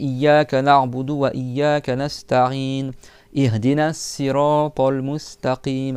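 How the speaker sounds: slow measured recitation; reciting verses slowly for students; Quran recitation. Acted. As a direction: chant the verses slowly and carefully.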